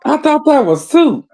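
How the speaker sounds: high-pitched disbelief; mock-shocked surprise. Real, not acted. Viewer learning the soup is seafood salad, surprised. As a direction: pitch leaps up in baffled realization.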